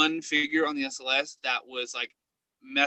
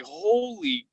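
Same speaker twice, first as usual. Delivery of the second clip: high, stretched exclamation of shock; stunned holy crap; 9 semitones higher, 3 dB louder, much slower than usual. Retold or imitated. Ghost hunter realizing the scene is real, shocked. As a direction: let it dawn on you, then blurt it out. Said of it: "I was like".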